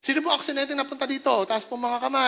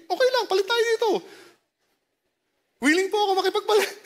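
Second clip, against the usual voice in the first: laughing, higher playful offer; laughing mock offer to swap; joking with a laugh; 6 semitones higher, faster than usual. Real, not acted. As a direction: tease the crowd through a laugh. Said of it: "Joke lang po".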